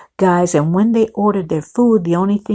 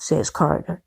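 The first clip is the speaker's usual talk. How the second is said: usual speaking voice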